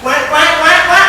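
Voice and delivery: loud honking goose imitation; goose call. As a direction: honk it out like a goose. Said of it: "Une oie blanche".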